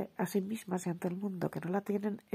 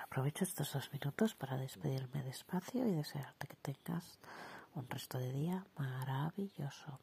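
soft, hushed, lingering sign-off; mock boozy husky voice; 2 semitones lower, 7 dB quieter than usual. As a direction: say goodbye in a playful boozer's husk. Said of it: "más bien voz de cazallera".

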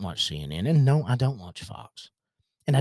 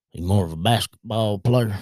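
put-on thick country accent with mangled vowels; country accent impersonation; 4 dB louder than usual. Coworker asks a dad about his son, country accent impersonation. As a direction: imitate a country coworker's question. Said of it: "the reason I do this accent's".

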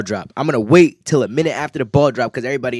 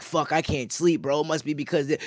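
quiet worried mumble; 9 dB quieter than usual. Retold or imitated. Late-night worry voiced.

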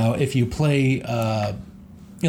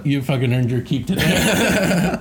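laughing; 3 semitones higher than usual. Real, not acted. Laughing after the bit.

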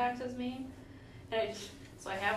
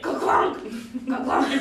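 falling fork clunk; 3 semitones higher, 11 dB louder, slower than usual. Shown as a demonstration. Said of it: "then it's like".

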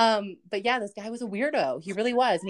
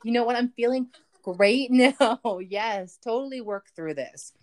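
fake positivity. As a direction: feign being totally on board. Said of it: "I would just B S".

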